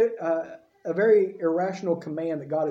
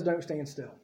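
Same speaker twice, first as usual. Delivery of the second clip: much softer, lower, firm; soft firm command; 4 semitones lower, 8 dB quieter than usual. Acted. God quietly telling Moses not to stand still. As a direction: say it low and firm. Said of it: "and God says".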